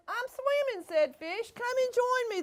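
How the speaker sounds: bubbly high fish; the fish inviting, in a high voice. Acted. Fish character speaks high.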